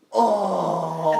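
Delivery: loud sympathetic aww; crowd aww. Retold or imitated. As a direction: coo like a whole crowd. Imitating crowd awing.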